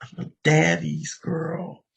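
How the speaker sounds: high, slow, sweet daughter's voice; a grown daughter gushing like a little girl; daddy's girl. Retold or imitated. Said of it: "She says".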